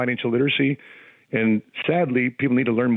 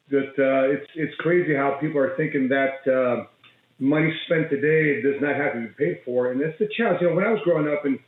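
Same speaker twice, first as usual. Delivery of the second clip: on speakerphone. Real, not acted. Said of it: "It sounds like you're on a speakerphone".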